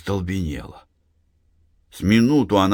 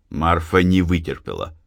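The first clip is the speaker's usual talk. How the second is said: ordinary delivery, nothing marked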